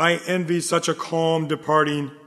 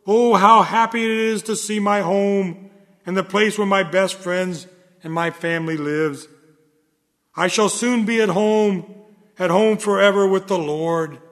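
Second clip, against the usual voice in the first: joyful relief; 3 semitones higher than usual. Acted. Tired walker seeing home at last, joyful. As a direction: let the relief of arriving lift the voice. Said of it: "and wipe the sweat from your face and say".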